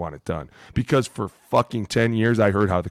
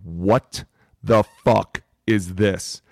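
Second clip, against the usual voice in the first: a hint of a crotchety old coach, very slow and drawn out; cranky old coach; much slower than usual. Rookie imitating cranky coaches above him, slow and disgusted. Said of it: "old, cranky men sitting above you going".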